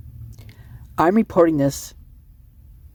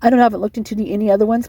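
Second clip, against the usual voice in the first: talking fast; 3 semitones higher, faster than usual. Real, not acted. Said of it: "I know I'm talking fast".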